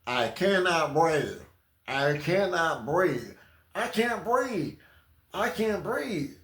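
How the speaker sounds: slow, strained fake plea; slow, put-on breathless whine; mock arrestee. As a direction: fake gasping for pity. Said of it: "You already know they say".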